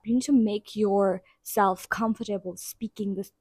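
hoarse, fading voice; losing voice. Real, not acted. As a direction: voice giving out, rough. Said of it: "I'm losing my voice".

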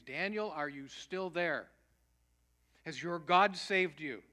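loud, anxious calling out, slow on the question; a king calling down into the den in anguish. Retold or imitated. King calling to Daniel in the den, loud and anguished. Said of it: "he cried out in a tone of anguish".

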